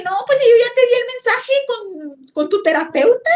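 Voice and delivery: a lightly voiced father from beyond, amused; a hint of the father's voice, casual; spirit voice. Father's spirit answers her.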